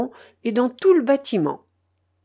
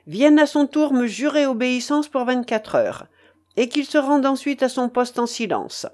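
higher, firm narrated order; commanding leader; 4 semitones higher than usual. A narrator's reading. Mutiny leader demanding an oath, commanding. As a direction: demand obedience from every man.

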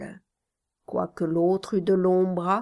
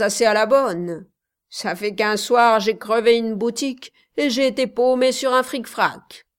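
tough Paris thug; 4 semitones higher, 6 dB louder, faster than usual. Acted. Apache quarry worker threatening rival.

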